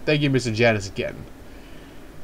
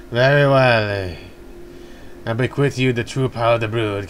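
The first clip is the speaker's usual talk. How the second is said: game character voice. Acted. Game character bequeaths the brood's power to Ryu, in a solemn character voice. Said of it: "Why am I still using his voice".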